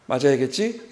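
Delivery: smiling calm father. Retold or imitated. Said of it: "웃으시면서".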